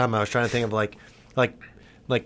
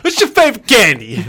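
laughing; 8 semitones higher, 4 dB louder than usual. Real, not acted. Repeats question laughing.

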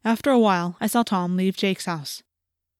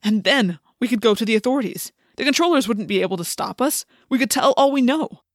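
building to a higher, louder finish; getting excited; 3 semitones higher, 4 dB louder than usual. A narrator's reading. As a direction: grow more eager with each sentence. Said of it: "He was getting excited now".

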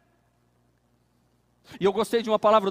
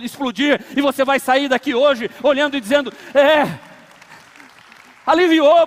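rising sermon climax; 2 semitones higher, 4 dB louder than usual. Acted. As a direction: lift them up with rising joy.

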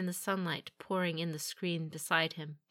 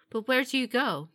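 higher, louder surprised question; betrayed surprise; 6 semitones higher, 6 dB louder than usual. A narrator's reading. Warrior asks where the champion is going, audibly surprised. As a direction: ask it with surprise breaking through composure. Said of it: "her reply betrayed her surprise".

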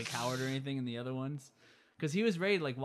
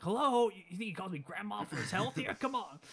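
mock cranky old Biff; 7 semitones higher than usual. Old Biff scolding Marty.

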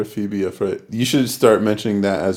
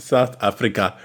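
mock African accent; 5 dB quieter than usual. Joking about a coffee order name, in a light mock African accent. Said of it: "do it with that accent".

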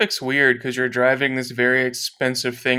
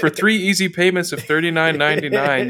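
infomercial. Pretend. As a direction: sell it like a late-night ad. Ad pitch parody.

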